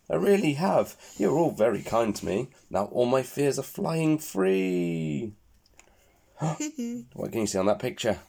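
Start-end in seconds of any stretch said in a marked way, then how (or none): 0.1-5.3 happy. Acted. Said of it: "laughs Minky".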